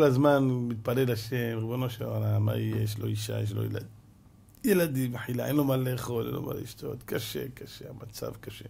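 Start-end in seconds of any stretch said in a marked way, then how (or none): 1.6-8.6 pleading prayer. Acted. Praying man's desperate lament.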